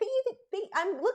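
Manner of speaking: excited, tongue-tied, stumbling false starts. Thanking a viewer for a super chat, stumbling over words with excitement. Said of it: "I'm stumbling over my words".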